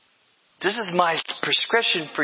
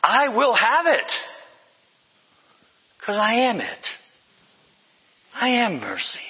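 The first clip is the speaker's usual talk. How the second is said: bold proclamation; 5 semitones higher than usual. Retold or imitated. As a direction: proclaim it as Jesus. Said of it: "No, he was saying".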